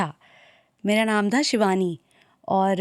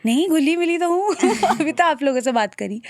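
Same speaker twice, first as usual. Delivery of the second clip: much higher, lilting objection; high-pitched, friendly denial; surprised protest; 6 semitones higher than usual. Real, not acted. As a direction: protest in real surprise at the remark. Protests host calling her not mingled.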